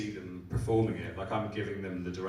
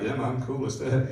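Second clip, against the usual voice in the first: breezy imitation; 5 semitones higher, 8 dB louder than usual. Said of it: "They were just like".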